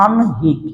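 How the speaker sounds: আনহিক split clearly into an and hik; n-before-h pronunciation. Shown as a demonstration. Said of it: "শব্দটার নাম হবে কি".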